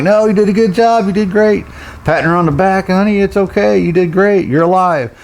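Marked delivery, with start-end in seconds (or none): 0.0-1.6 high-pitched imitation of consoling a child; acted-out parental praise, pitched way up; retold reassurance. Dad consoling his bawling daughter. 2.9-5.1 high-pitched imitation of consoling a child; acted-out parental praise, pitched way up; retold reassurance. Dad consoling his bawling daughter.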